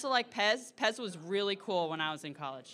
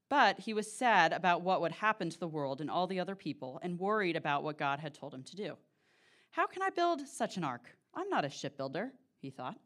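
epic fantasy narrator. Acted. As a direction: read it like a bedtime epic. Reads Noah's Ark to the congregation.

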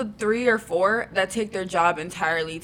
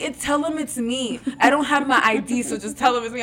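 put-on drunk girl quote; 3 semitones higher than usual. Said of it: "She's like".

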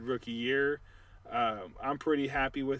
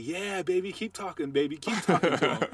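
higher, hyped-up mock cheering; gleeful egging on; 5 semitones higher, 3 dB louder than usual. Teammate egging him on to keep trash talking, hyped and higher. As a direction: egg him on like a bench teammate. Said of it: "is just like".

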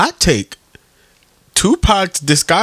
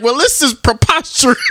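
mock posh voice; 8 semitones higher than usual. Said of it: "he be like".

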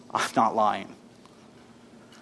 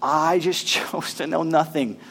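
softer, intimate reading; quiet quoting; 6 dB quieter than usual. Acted. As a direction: say it gently, almost confiding. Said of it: "He says".

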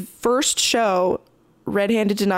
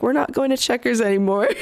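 a little faster, laughing through it; 2 semitones higher, faster than usual. Retold or imitated. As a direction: laugh off the ordeal as you say it. Laughing at the bad night.

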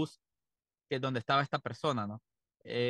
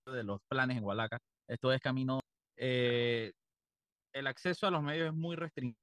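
call dropping out. Real, not acted. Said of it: "Te estás cortando un poco".

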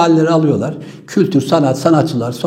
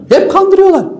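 exasperated outcry; 13 semitones higher than usual. Real, not acted. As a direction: burst out high and indignant. Outburst at being deceived.

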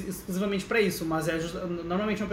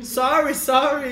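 apologetic mock plea; 6 semitones higher, 5 dB louder, much slower than usual. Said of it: "e a gente".

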